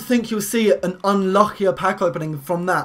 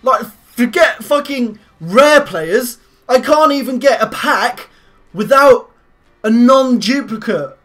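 calm turning angry; 5 dB louder than usual. Real, not acted. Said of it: "I'm asking you nicely".

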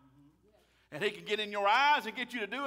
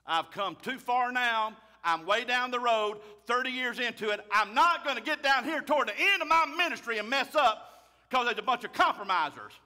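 emphatic preaching; 3 semitones higher, 6 dB louder than usual. Real, not acted. Preacher declares he won't change.

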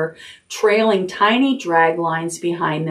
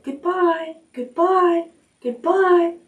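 high small faraway voices; tiny cries fading off; weak goodbyes; 11 semitones higher, slower than usual. A narrator's reading. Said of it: "came weakly to Wilbur's ear".

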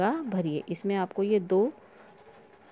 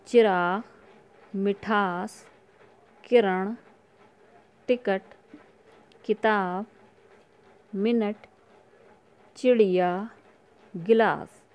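teacher reading aloud; slower than usual. Shown as a demonstration. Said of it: "मेरे साथ साथ आप इसमें उच्चारण करेंगे".

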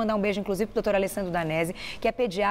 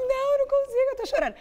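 high, wailing mock sob; imitating her own crying; faster than usual. New mom telling the doctor she can't stop crying, high wailing. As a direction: replay her panicked phone voice.

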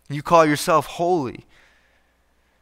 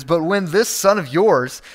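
cold stress on this, disowning the brother; a touch of sneering older son; prideful sneer; 3 semitones higher than usual. Retold or imitated. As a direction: push him off onto the father. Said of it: "You can hear the pride".

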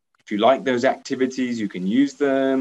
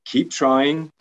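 praise; 3 semitones higher than usual. Shown as a demonstration. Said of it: "Still encourage them, still praise them".

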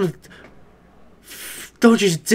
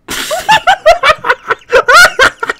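high shrill burst of laughter; real screaming laughter; shrieking laugh; 7 dB louder than usual. Real, not acted. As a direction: crack up helplessly. Reacting to bad animation.

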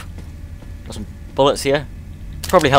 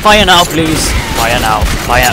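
urgent shouting; 5 dB louder, slower than usual. Real, not acted. Urging allies under attack.

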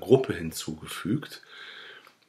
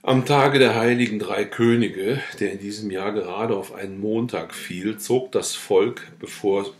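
steady, measured reading of a village novel; story narration; 4 dB louder than usual. A narrator's reading. Reading the peasant novel to listeners, in story narration. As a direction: read the old tale aloud, clear and even.

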